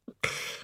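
put-on sharp drunken hiccup; a single hiccup. A narrator's reading. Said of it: "He hiccuped".

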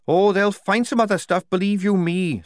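disgruntled prisoner's complaint; Tonka, disgruntled captive. A narrator's reading. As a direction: grumble it high, well above the narration.

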